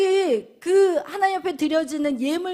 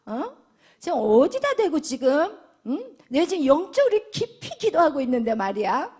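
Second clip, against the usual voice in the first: louder, mock outraged comeback; indignant retort; 4 dB louder than usual. Hannah imagined talking back to Eli, mock indignant. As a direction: snap back at the priest in disbelief. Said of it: "여러분 같으면 어떻게 생각하겠어요?".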